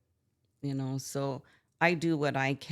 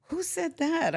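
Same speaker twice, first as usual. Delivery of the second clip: laughing daughter; 4 dB louder than usual. Retold or imitated. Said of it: "White Elkoman was laughing at me".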